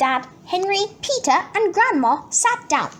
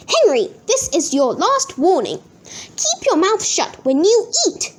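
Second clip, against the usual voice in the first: shouted; 5 semitones higher than usual. Acted. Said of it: "shouted Dad".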